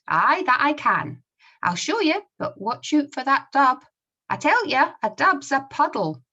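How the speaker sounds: put-on high, loud Scottish comic-strip boy; Scottish accent. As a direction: act it out with a lively Scots accent. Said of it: "I'll try my best to read them using the Scottish accent".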